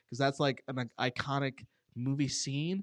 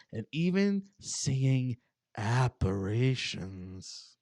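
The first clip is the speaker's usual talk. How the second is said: slow, hushed ghost story telling; spooky story narration; 3 semitones lower, slower than usual. Acted. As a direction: draw out the creepy details slowly. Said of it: "serious, spooky voice".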